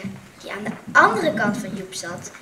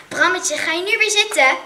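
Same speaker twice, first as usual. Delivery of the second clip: not unkindly; 8 semitones higher, 8 dB louder than usual. A narrator's reading. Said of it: "vroeg ze niet onvriendelijk".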